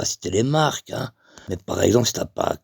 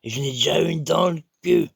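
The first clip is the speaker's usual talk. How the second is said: higher-pitched stranger objecting; lightly acted indignant gentleman; protesting man; 4 semitones higher than usual. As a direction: set the record straight, pitched up. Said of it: "le monsieur, il fait".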